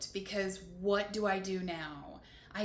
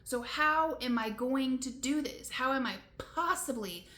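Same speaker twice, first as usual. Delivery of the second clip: retold overwhelm; 2 semitones higher, 4 dB louder than usual. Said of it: "I was just so overwhelmed in that moment".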